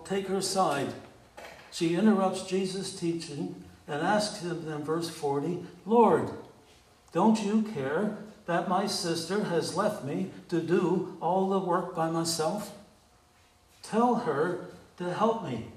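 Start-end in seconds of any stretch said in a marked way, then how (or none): 5.8-15.7 a sharp, louder cry of Lord, then a pressed complaint; exasperated complaint. Acted. Martha, fed up with her sister, demands Jesus's help, exasperated. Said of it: "There's an exclamation mark there. So you can imagine her tone".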